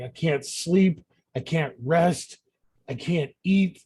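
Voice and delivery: acted touch of despair; starting to break down. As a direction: dwell on each complaint, close to breaking. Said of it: "he just starts to break down".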